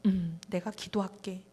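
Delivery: a soft, slow pastor dodging the request; pastor brushing it off. Retold or imitated. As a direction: hum and answer slowly, noncommittal. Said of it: "그 목사님 눈을 감고".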